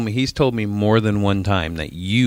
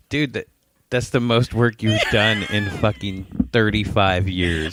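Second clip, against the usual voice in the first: mock yell; slower than usual. Mocking friend's lazy coworker.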